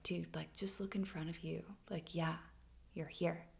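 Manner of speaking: soft voiceless whisper. Retold or imitated. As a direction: whisper it like a secret from the earth. The earth speaks to her.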